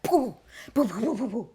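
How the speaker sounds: imitated booming trailer hits, rising in pitch; bombastic trailer hits. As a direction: punch out big "poo" hits like a trailer score. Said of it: "It's very bombastic".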